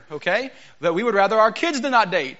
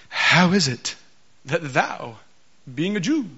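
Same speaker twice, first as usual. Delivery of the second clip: KJV reading style. Shown as a demonstration. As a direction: read it like lofty old scripture, pausing on every phrase. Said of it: "I read it like this".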